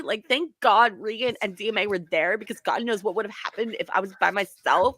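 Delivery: lightly voiced ditzy Valley Girl. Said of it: "the Super Valley Girl voice".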